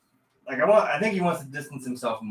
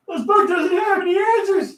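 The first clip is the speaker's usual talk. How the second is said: high, loud put-on cry; mock wail; 8 dB louder than usual. Friend joining the old-man bit, high loud mock cry. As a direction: wail it in hammed-up despair.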